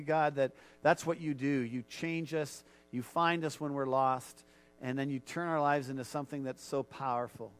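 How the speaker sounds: earnest spoken prayer; leading the church in heartfelt prayer. Acted. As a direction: pray aloud before the congregation. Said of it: "would you just join me in prayer".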